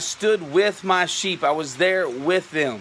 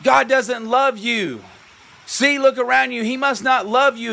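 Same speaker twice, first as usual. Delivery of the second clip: taunting voice of the world; 4 semitones higher than usual. Retold or imitated. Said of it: "When the world says".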